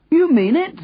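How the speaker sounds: very high, incredulous call; calling back. A narrator's reading. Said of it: "the man called back".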